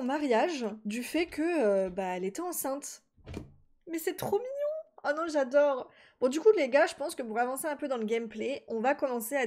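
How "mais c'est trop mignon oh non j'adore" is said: exclamation aiguë et attendrie; s'extasier devant ses Sims, plus aigu; attendrie ravie. Real, not acted. Attendrie par la demande. (exclamation aiguë attendrie)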